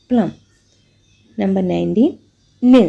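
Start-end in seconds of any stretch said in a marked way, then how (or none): 2.6-2.8 "n" hummed through the nose; "n" as a bare nnn; isolated n sound. Shown as a demonstration. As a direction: hum "n" alone. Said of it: "Example, nut".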